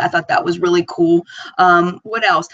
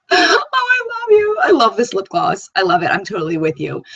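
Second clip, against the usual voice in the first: gushing thanks; 2 semitones higher than usual. Retold or imitated. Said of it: "And I was like".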